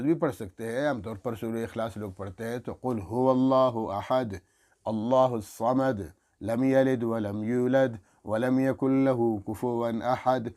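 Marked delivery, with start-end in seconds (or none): 2.7-10.5 slow, clear recitation of Surah Ikhlas. Shown as a demonstration. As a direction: let every word be heard. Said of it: "ہر لفظ آپ کا الگ پہچانا جا سکے". (ہر لفظ الگ واضح تلاوت)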